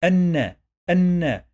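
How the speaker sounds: الن as "an-na", loud and high; alif then noon. Shown as a demonstration. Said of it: "The first sound we heard in this word".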